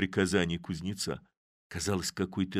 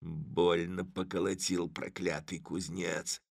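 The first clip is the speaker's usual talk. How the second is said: rueful grumble; 5 dB quieter than usual. A narrator's reading. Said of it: "почёсывая спину, произносил".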